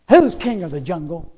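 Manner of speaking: moderately loud mock roar; a slightly restrained lion's bellow. Lion challenging a monkey, mild mock roar. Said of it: "he let out another lion roar".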